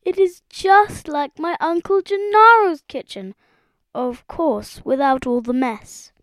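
high, marvelling frog voice; gasping in amazement. A narrator's reading. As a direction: marvel at it, then qualify it. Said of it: "he gasped".

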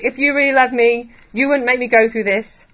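mock demanding. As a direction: imitate an angry demand, pushed and loud. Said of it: "He's not demanding. He's not saying".

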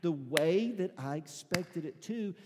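high, drawn-out cry of frustration to God without shouting; anguished why, stretched out and high; frustrated pleading. Acted. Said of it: "Sifting and pressure and frustration".

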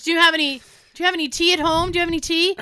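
put-on high, insistent old-man voice; Tony. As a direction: imitate a grandfather urgently asking. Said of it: "He goes".

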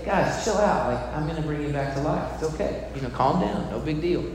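hammed-up laid-back calm down; casual brush-off. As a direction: wave the mourners off like it's nothing. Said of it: "I walk into that moment and I say".

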